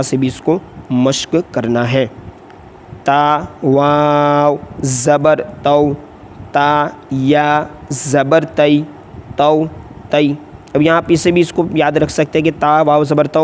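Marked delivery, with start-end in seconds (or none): 3.0-10.3 slow, drawn-out letter chant; sing-song classroom spelling; Qaida spelling drill. Shown as a demonstration. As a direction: chant each letter slowly for students to repeat.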